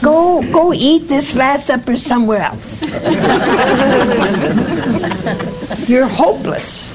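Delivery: mock exasperation laughing through it; laughing scolding. Preacher imagining himself scolding the apostles, laughing. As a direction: scold them while cracking up. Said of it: "what I would have done".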